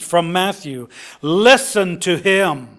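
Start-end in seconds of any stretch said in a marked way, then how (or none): 1.2-2.7 slow, weighty command; thundered. Acted. Preacher voices God commanding the disciples, measured thunder. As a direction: command it slowly, as the voice from the cloud. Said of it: "from this cloud a voice thundered".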